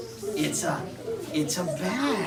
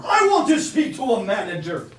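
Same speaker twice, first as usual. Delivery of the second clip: grumpy bear; 6 dB louder than usual. Acted. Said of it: "Bruce asked to speak with a manager".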